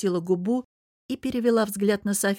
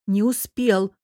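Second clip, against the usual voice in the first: louder, flat falling успел, final; firm repeat; 3 semitones higher, 5 dB louder, slower than usual. Acted. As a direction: settle it, dropping успел hard. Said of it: "повторила Лиза".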